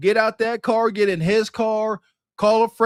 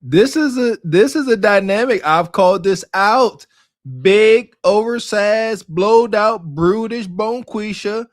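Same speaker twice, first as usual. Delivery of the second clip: roasting; 6 dB louder than usual. Real, not acted. Host roasting the woman in the clip.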